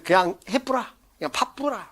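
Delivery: tentative attempt at Gyeongsang dialect. Shown as a demonstration. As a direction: try out a Gyeongsang accent, unsure of it. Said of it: "경상수 사투리 잘 모르는데".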